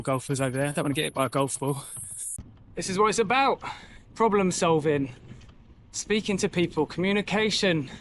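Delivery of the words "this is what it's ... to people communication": preacher teacher. Real, not acted. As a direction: preach the lesson of the day to camera. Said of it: "I sound like a preacher teacher".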